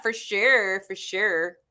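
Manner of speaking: playful Valley girl impression; Valley girl accent. Shown as a demonstration. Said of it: "Sound like a Valley girl".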